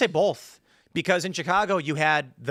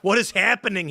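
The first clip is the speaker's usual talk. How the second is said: bewildered; 5 semitones higher, 5 dB louder than usual. Retold or imitated. Confused host acted.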